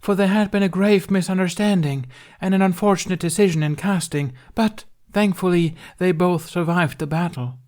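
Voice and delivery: high, loud storybook proclamation; loud stage narration. A narrator's reading. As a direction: drown them out with grand narration. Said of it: "Tooth interrupted".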